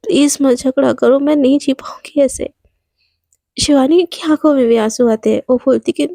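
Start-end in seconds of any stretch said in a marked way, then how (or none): 0.0-2.5 slow, whispered tearful begging; tearful plea. Acted. Ananya on her knees begs Shivani, tearful whisper. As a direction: plead through tears, dropping to a whisper. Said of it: "उसकी आंखों से ना ठप ठप आंसू".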